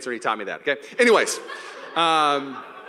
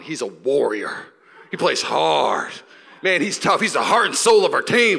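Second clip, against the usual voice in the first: proud fan; 6 dB louder, slower than usual. Acted. Voices Warrior fans praising Draymond.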